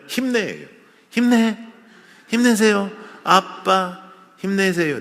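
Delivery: mock cheering. Imitates cheering words.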